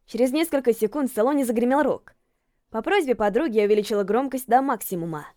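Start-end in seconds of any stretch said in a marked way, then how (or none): none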